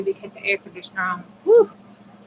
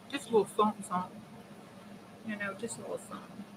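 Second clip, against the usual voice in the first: fading; 12 dB quieter, much faster than usual. Real, not acted. Fading repetition to herself.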